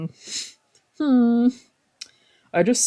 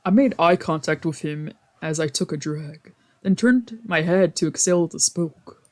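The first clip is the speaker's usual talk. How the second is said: story narration. Acted. Reading the game's narration aloud to viewers, even narrating tone. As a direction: lightly read visual novel narration.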